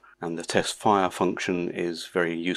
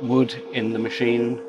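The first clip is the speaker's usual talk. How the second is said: machine noise behind; 3 semitones higher than usual. Real, not acted. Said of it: "Sorry about the machine noise".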